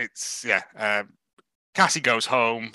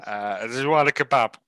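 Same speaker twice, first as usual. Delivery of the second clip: slurred, lightly played drunk Santa. Drunk Santa offering Sam a lift, lightly slurred. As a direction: play Santa mildly drunk, easing off the pace. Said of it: "drunk off his ass".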